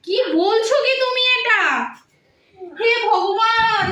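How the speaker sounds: rising to a stunned cry of despair; shocked disbelief. Acted. Wife on the phone learning of her husband's death, stunned cry. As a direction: hear the worst news and break.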